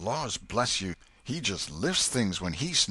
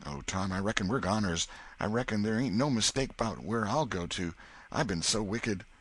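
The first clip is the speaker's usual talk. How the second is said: much higher, louder frantic repentance; boy sure he is doomed, higher and louder; despairing boy; 7 semitones higher, 4 dB louder than usual. Acted. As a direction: wail about being a goner.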